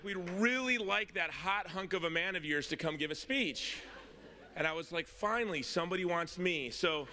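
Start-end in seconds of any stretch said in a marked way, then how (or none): 0.0-3.8 higher-pitched imitation of a Louisiana caller; Louisiana accent. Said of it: "I'm not good with accents". 5.1-6.7 high, comic relief at being wanted; mock triumph. Acting out his delight at caller.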